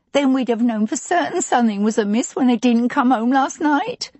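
put-on a touch of chatty old housekeeper; lightly voiced housekeeper. A narrator's reading. Housekeeper continues upset.

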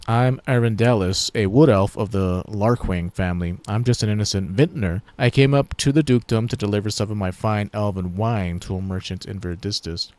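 a hint of an innocent elf; elf vintner voice. Elf character voice.

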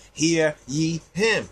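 slow, solemn quoted proclamation; measured, weighty quote; quoting Haile Selassie. Retold or imitated. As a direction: intone it like a royal decree. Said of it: "What does Haile Selassie say?".

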